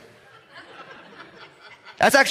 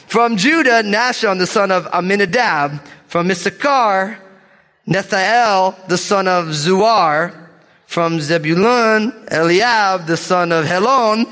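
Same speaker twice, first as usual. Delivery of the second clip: measured, emphatic roll-call of names; bold scripture reading; 3 semitones higher, slower than usual. Real, not acted. Preacher reading tribal leaders to congregation, bold and deliberate. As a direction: proclaim each name boldly, stressing its last syllable. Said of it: "gonna read these names with boldness".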